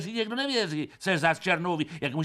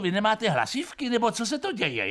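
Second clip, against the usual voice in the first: mock bewildered; 5 semitones higher than usual. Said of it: "chrapíte".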